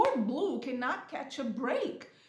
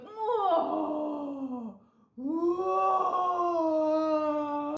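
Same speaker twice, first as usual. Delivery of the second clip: drawn-out, higher, choked whoa; mock tearful whoa; 5 semitones higher, 3 dB louder than usual. Watching the burning island scene, tearfully overwhelmed. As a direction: let the whoa crack like held-back tears. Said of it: "the tears start coming".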